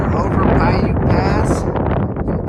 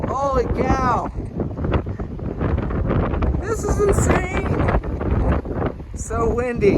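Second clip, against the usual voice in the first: shouting over wind; 11 semitones higher, slower than usual. Real, not acted. Exposed pass in strong wind.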